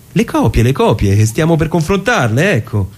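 high, quick insistence that drops at the end; impatient explaining. Acted. Lawyer presses the clerk about the copies, exasperated. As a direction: push the point, exasperated.

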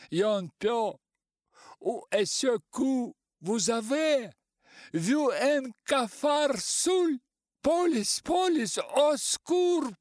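high, loud, slowing cries, mixing French; in despair. A narrator's reading. Артур в отчаянии зовёт полицию, громкие мольбы. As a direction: plead frantically, then cry for police. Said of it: "Артур в отчаянии".

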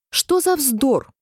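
Alice's brave outburst; loud retort. A narrator's reading. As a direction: stand up to the queen out loud. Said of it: "громко сказала Алиса".

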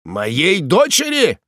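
high, slow astonished cry; exclaiming in surprise. A narrator's reading. Prisoner stunned by the request for his daughter, astonished. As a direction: let the old man gasp it out, stunned. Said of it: "вскричал узник".

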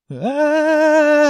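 high, far-off wailing scream; dragon's wail. A narrator's reading. Dragoness howling as the orc charges, high scream. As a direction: let out a frightened dragon's howl.

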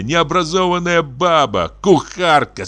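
plain reading voice

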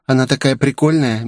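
cheerful relief they've gone; a hint of sugary girlish malice; sweetly. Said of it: "мило улыбнувшись".

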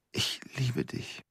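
breathless unvoiced whisper of love. Husband whispering his love to Celia, hushed. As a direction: breathe the words out, barely audible.

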